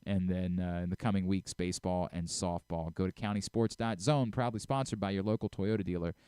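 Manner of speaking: upbeat host-read ad for sports coverage; radio host ad read; sponsor read. Acted. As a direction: plug the sponsor cleanly and brightly.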